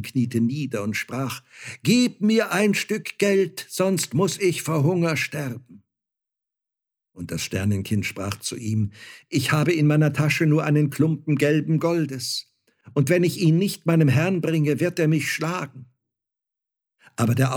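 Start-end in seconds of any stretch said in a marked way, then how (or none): 1.8-5.8 desperate begging. A narrator's reading. Starving leper begs for money. 9.3-15.9 put-on higher, louder voice of a worried child slave; anxious Star-Child. A narrator's reading. Star-Child's worried refusal to the beggar.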